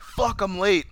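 high-pitched mock dismay; retold upset. Retelling Marty arriving too late, mildly hammed-up upset. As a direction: imitate someone upset at being too late. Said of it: "starts getting upset again".

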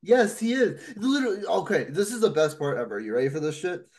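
ordinary talk

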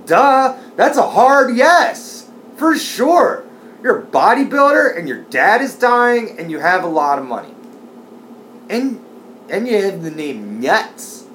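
high, loud gleeful yes; giddy. Pretend. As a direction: squeal an eager yes. Gleeful mock acceptance of proposal.

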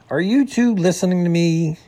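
put-out character voice; upset, indignant. A narrator's reading. Upset skunk demands their attention.

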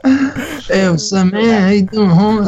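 high, cartoonish Hispanic-accented greeting; mock Hispanic accent. Friend repeating the imagined brother's greeting, mock Hispanic accent. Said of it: "that impression of that Hispanic accent".

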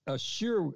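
sure lifted high and leaned on; stress on sure. Shown as a demonstration. Preacher to congregation, stressing sure. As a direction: land hard on the word sure. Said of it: "what he's putting emphasis on".

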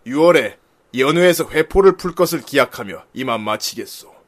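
stately warlord letter reading; measured old-time general's delivery; cool general's reading. Acted. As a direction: close the letter with formal, dashing gravity. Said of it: "이거 좀 멋있게 읽어야겠다".

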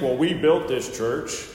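lightly put-on Southern accent. Preacher voices possessive church members, in a mild Southern accent. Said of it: "like that in a Southern accent".

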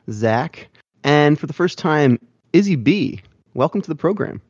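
slow, announcer-style show intro; host the show like a radio DJ; big radio voice. Acted. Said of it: "I'm putting on my big radio voice".

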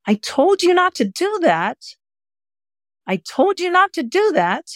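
very high, light puppy-scolding voice; gentle scolding. Shown as a demonstration. Coach gently scolds a puppy as practice, high light voice. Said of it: "you're trying to gently scold them".

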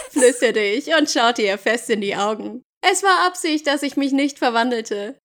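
measured audiobook reading; story narration. Acted. Jacob recounting losing Bella, story narration. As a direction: read it as Jacob's dramatic account.

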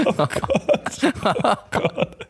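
a breathy, high, whispered "oh god" in mock panic; hushed, pretend horror. Gespieltes Entsetzen.

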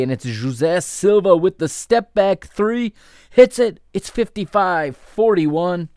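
2 upbeat basketball play-by-play call; 3 call the action as it happens, lifting on big plays; 1 live play-by-play. Acted. 4 commentator calling the second half for listeners, lively play-by-play.

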